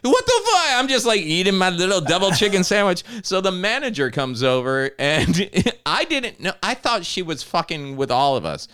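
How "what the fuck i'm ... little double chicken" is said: laughing hard at the guy flipping out; laughing while telling. Real, not acted. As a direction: laugh through it, pitch climbing. Retelling the man's outburst, laughing.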